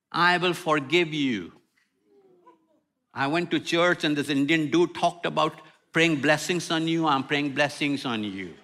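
mild mock of a pious post; mock Facebook post. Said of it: "say things like".

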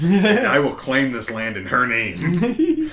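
slow, lightly mock-grand conquistador; Spanish conquistador. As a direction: proclaim it slowly like a play conquistador. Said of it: "just be a Spanish conquistador".

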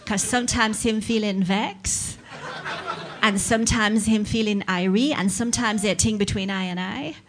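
mummy quoting Jamaican patois; lightly put-on Jamaican lilt, questioning rises; hint of Jamaican accent. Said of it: "with a Jamaican accent".

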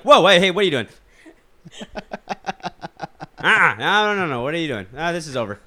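high, loud startled woman; obnoxious girl voice. Retold or imitated. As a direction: overdo her panicked yelp. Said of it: "not that obnoxious".

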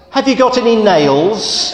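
a cheeky duck asking again and again; pestering duck. Acted.

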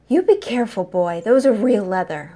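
lightly voiced snappish matron; sharp snap. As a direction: bark a warning over the luggage. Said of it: "Vera snapped".

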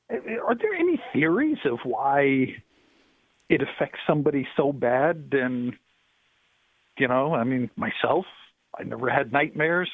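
phone line caller; thin, filtered telephone voice; over the phone. Real, not acted. Caller on radio show.

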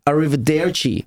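"arrivederci" with an "-DAIR-chee" ending; Italian pronunciation demo. Shown as a demonstration. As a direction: say "arrivederci" with an open e in "der". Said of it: "a true Italian will pronounce it".

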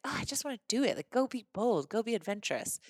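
frustrated self-pep-talk, starting high; retold frustration. Urging herself to go be bold, mildly frustrated. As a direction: replay a mild exasperated groan at yourself. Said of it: "I was frustrated".

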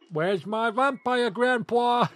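high, slow, drawn-out monster voice; Herman Munster voice. Pretend. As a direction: stretch it out like a TV monster. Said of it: "Go and do Herman Munster again".

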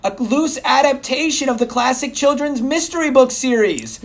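booming announcer read; loud sharp voice. Acted. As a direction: yell the whole blurb. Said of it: "Why are you yelling?".

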